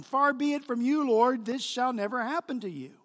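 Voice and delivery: insistent scolding quote; rebuke. Retold or imitated. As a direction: object firmly, as a disciple correcting his master. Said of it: "he begins to rebuke Jesus".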